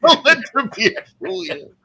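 high-pitched laughing echo. Real, not acted. Second listener echoes the comic's punchline, high and laughing. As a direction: squeal the punchline back through laughter.

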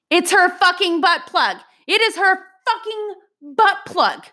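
horrified squeal of disgust; horrified reveal. Retold or imitated. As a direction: blurt the awful truth in disgust. Revealing what they touched.

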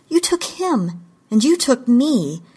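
high-pitched, emphatic accusation; heated accusation. A narrator's reading. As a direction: throw each charge at the captor. Accusing captor of kidnapping.

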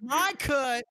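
hammed-up insistence; mock demand. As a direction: drag out a playful, indignant demand.

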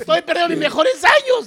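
mock lament. Voicing the crying girlfriend's thought.

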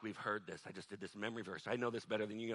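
low, soft mimicry of jaded students; frozen chosen student. Bored students who know the verse already, lightly mimicked unimpressed. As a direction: voice an unimpressed pupil under your breath. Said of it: "preaching to the frozen chosen".

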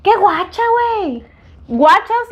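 high, sing-song Sonora friends' voice; northern Mexican accent. Retold or imitated. Sonoran woman teasing a friend, high and bright. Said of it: "mis amigas sonorenses que me escuchen".

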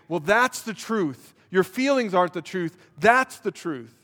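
preacher answering doubt with rising fervour; emphatic reply. Retold or imitated. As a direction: insist hard, climbing to a cry. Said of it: "And I say".

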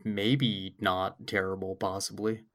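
speaking while choking up. Real, not acted. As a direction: voice strained from choking. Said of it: "I'm choking here".

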